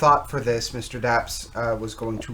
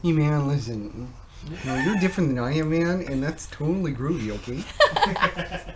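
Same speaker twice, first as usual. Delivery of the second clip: lightly voiced groovy hippie, slightly raised; mock hippie; 3 semitones higher than usual. Riffing on peace and love to co-hosts, mock hippie. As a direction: play a hint of a hippie.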